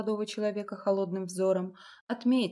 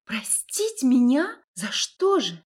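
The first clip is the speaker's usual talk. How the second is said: slow, louder, rising in disbelief; indignant disbelief; 5 semitones higher, 6 dB louder, slower than usual. A narrator's reading. A woman outraged he would forgive her, disbelieving. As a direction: stretch it out, stunned and offended.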